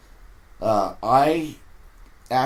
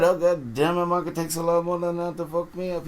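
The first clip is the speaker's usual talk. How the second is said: put-on tough old skipper; 8 semitones higher than usual. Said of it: "he would say".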